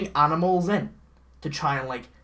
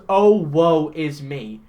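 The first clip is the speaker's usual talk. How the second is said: creepy Santa; 5 dB louder, slower than usual. Retold or imitated. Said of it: "it sounds creepy".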